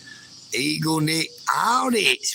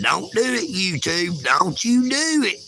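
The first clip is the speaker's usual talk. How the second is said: put-on high little-girl voice, much higher; imitating little Bella; 4 semitones higher than usual. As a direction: mimic a small girl scolding YouTube. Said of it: "where she was saying".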